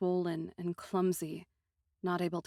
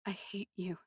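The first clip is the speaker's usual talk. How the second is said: soft, hollow I hate you; empty; 7 dB quieter than usual. Acted. Aiko forcing out words to Tango, empty and soft. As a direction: say it with nothing left. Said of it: "I managed, emptily".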